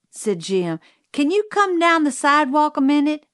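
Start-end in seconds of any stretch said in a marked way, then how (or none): 1.1-3.3 put-on quick, higher-pitched boy's request; urgent boy. A narrator's reading. Jim asking Cal to come outside, urgent. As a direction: hurry her along like an anxious kid. Boy calls cook for help.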